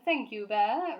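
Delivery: tactful thanks. A narrator's reading. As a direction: thank him gently but firmly. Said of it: "replied Sir Huntley tactfully".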